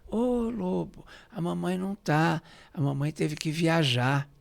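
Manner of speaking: a hint of a little boy making an excuse; ten-year-old boy. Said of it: "O João Marcelo, com dez anos".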